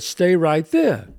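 loud, slow warning to stay put; firm command. Retold or imitated. Homeowner warning an approaching stranger, loud slow command. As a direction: plant him where he stands, slowly. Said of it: "and I said".

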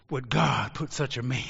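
ordinary talk, nothing marked

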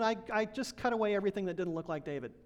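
quick, short-tempered brush-off; curt answer. Retold or imitated. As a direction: toss it off fast like a crabby sculptor. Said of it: "he answered very shortly".

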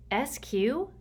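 tight, strained nervous question. A narrator's reading. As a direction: squeeze the words out, tense. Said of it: "Sticky asked in a strained voice".

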